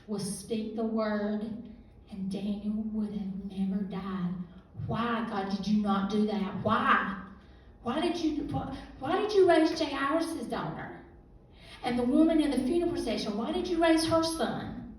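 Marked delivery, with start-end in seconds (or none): 4.9-14.9 raised cries of why, climbing higher and louder; anguished plea. Retold or imitated. Grieving sister demanding answers from God, anguished and raised. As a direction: throw the questions at God, voice rising.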